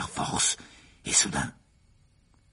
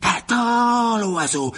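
higher, loud sharp shout; sudden cry; 11 semitones higher, 6 dB louder, much slower than usual. A narrator's reading. Riddle shouts at the phoenix to leave Harry. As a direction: scream at the bird to go. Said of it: "s'écria soudain la voix de Gédusor".

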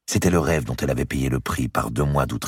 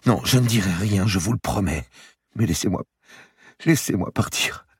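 higher, begging; pleading young woman; 8 semitones higher than usual. Acted. Marie begging Madame de Bouville to let her leave, higher pleading. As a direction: beg to be let go.

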